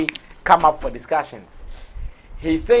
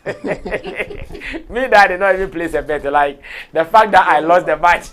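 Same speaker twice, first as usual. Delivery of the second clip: excited; 5 semitones higher, 9 dB louder than usual. Real, not acted. Excited laughing rant about bets.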